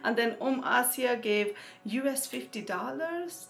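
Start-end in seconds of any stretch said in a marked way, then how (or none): 1.8-3.5 put-on, self-mocking American accent; cringy American accent. Fundraiser reading out a dollar donation, cringy American accent. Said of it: "cringy American accent".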